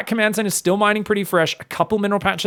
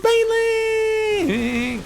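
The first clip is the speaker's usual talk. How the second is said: long, high drawn-out yell of Baneling; excited shout; much slower than usual. Real, not acted. Caster spotting burrowed Banelings, shouted high and slow. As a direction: stretch the word out in a high shout of alarm.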